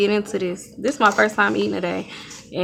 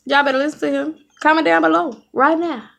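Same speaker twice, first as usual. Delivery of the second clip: pitched-up hype for viewers; high insistent urging; 6 semitones higher than usual. Real, not acted. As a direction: push them to comment now, high. Mom urging viewers to comment.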